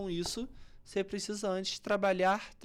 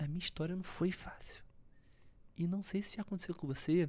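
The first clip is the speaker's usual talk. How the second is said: sorrowful, subdued, soft sad tone; 2 semitones lower, 6 dB quieter than usual. Showing how tone of voice conveys a feeling, in a sad tone. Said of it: "Eu quero que você fica talvez triste".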